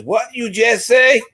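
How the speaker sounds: high, slow mock disbelief from a Southern lady; retold incredulous question. Virginia lady questioning the joker across from her, incredulous. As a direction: draw it out high, as if scandalized. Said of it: "a lady from Virginia".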